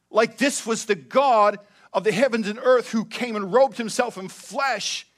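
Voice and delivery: ordinary talk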